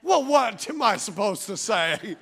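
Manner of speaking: slow, drawn-out mock exasperation; exasperated protest. Husband told he is shutting down, exasperated protest. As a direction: stretch it out in comic frustration.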